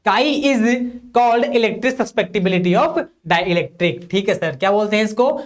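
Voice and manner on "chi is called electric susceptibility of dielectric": slow, even reading for students to copy; slow dictation. Shown as a demonstration. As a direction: dictate each word slowly so they can write. Dictating a definition. (धीमे-धीमे notes लिखवाना)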